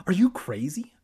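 high, loud shriek of disbelief. A narrator's reading. Evan reacts to Kermit dumping the mice, shrieking. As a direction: shriek it, pitch and volume up. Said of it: "Evan shrieked".

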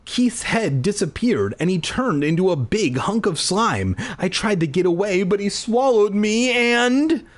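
crying out. A narrator's reading. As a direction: tell mom the horror in a panic. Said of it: "I cried".

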